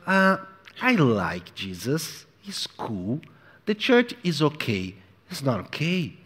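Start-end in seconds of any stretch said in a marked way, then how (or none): 0.8-5.0 mock casual believer. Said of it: "I cannot kind of".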